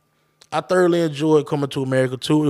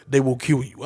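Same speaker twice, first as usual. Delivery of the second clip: a hint of the royal father, amused imitation; James Earl Jones. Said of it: "James Earl Jones in that bitch".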